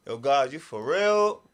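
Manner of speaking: slow, loud appeal to God; awed disbelief. Retold or imitated. Man looking up at God by the building, amazed.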